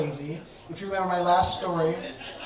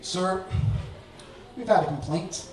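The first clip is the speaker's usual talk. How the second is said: official woman. Retold or imitated. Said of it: "the one woman says".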